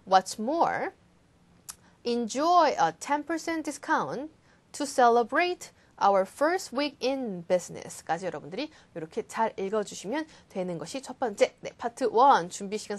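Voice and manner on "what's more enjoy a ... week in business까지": slow ad reading with stress. Shown as a demonstration. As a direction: read it like a radio ad. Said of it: "광고처럼 읽어주시면".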